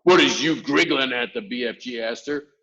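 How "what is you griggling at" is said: louder, mildly irritated question; a touch of annoyance; slightly nettled. A narrator's reading. BFG asking Sophie why she smiles, nettled. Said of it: "slightly nettled".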